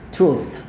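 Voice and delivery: "Truth" ending on a clear th, tongue slightly out. Shown as a demonstration. Teacher showing students the th sound, tongue out. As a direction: show the th with the tongue between the teeth. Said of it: "lidah agak sedikit keluar".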